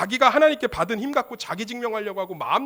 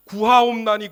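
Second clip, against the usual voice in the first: a desperate cry to God, louder; loud pleading cry; 3 semitones higher, 9 dB louder, slower than usual. Retold or imitated. 두 번이나 반복하면서.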